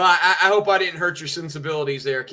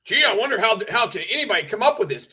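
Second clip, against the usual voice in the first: mocking quote; 4 semitones higher, faster than usual. Mockingly quoting chat member.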